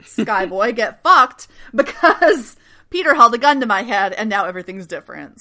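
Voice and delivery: half-acted defiant retort, voice rising; defiant mock outburst. Danko telling Nathan off, loud defiant retort. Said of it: "Danko's like".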